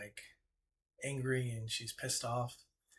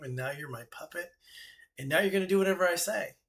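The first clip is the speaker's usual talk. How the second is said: singsong goddess; 3 semitones higher than usual. Acted. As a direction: taunt him sweetly, then snap into command. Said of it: "sings a song".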